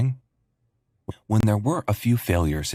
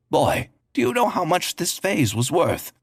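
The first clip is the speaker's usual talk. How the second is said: angry; 9 semitones higher than usual. A narrator's reading. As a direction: scold the boy sharply. Angry customer confronts delivery boy.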